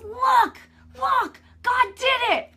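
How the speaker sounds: high, loud, slow joyful shout; excited shout. Retold or imitated. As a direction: shout the miracle out, thrilled. Husband shouts about the healing.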